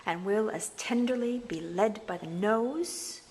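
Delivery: slow, scheming Iago recitation; villain Iago musing on the Moor; Iago's speech. Shown as a demonstration. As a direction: read it as sly Iago plotting. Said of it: "one of Nasty Iago's speeches".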